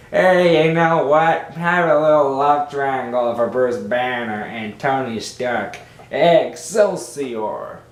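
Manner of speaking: lightly voiced Stan Lee, punchy start, drawn-out excelsior; a hint of Stan Lee pitching an idea; mild Stan Lee, stretch out the excelsior; Stan Lee impression. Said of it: "That's my only Stan Lee impression".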